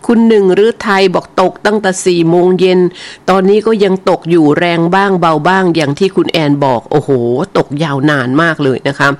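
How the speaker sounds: ordinary delivery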